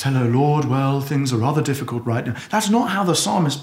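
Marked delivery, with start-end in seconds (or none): 0.0-2.4 restrained, low and even; careful, measured prayer. Acted. Reserved believer mentioning difficulties to God, carefully measured. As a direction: hold everything back, politely understated. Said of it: "careful, measured piece of prayer".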